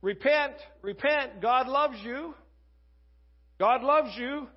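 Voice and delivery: preaching. Retold or imitated. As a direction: call out to the crowd like Noah preaching. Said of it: "he kept preaching righteousness".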